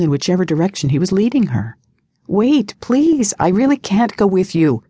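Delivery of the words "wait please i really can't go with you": higher-pitched, pleading protest; shaky protest. A narrator's reading. Mia protests as he leads her away, shakily. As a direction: beg him to stop, unsettled. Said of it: "Mia protested shakily".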